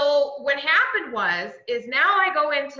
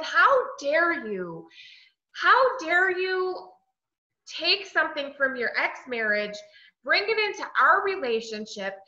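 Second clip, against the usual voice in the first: indignant; 3 semitones higher than usual. Retold or imitated. Outraged at ex-wife's candlestick.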